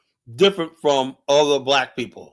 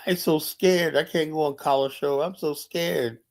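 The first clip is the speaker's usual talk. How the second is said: mock scared whining. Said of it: "You got so many scary ass niggas".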